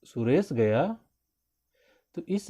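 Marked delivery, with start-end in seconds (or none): 0.0-1.0 mildly doubting question, अच्छा questioned and गया rising; doubtful. Shown as a demonstration. Teacher showing how doubt changes the meaning, doubtful questioning tone. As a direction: query अच्छा and गया with suspicion. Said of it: "संदेह को उत्पन्न करते हुए बोलते हैं".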